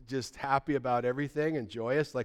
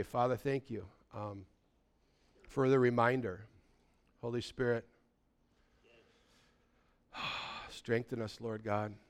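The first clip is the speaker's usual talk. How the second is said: prayer; 4 semitones lower, 7 dB quieter than usual. Real, not acted. Leads closing prayer.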